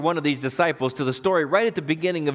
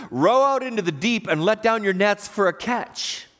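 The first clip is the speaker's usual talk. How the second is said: raised voice carrying over water; calling out; 3 semitones higher than usual. Retold or imitated. Preacher voices Jesus calling to Peter for all to hear, calling out. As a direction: call it out for the crowd to overhear. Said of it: "loud enough presumably for everybody to hear".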